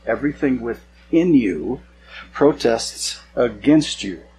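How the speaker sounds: drawn out at half speed, with pauses; slow emphatic repeat. Acted. Preacher reading God's rebuke to the congregation, slow and emphatic. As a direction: repeat it slowly, weighing each word.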